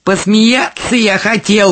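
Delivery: understated storybook wail; wailing fly agaric. A narrator's reading. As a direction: cry it out like a cornered mushroom. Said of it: "вопит мухомор".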